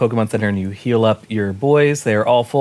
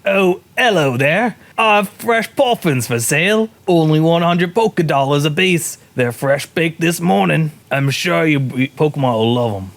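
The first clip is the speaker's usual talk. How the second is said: attempted Scottish accent; 3 semitones higher than usual. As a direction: hawk wares in a wobbly Scottish accent. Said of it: "I don't know what accent I'm doing".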